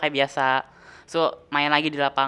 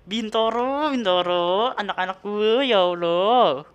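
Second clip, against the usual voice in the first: exasperated mother; 3 semitones higher, much slower than usual. Retold or imitated. Imitates exasperated mother scolding him.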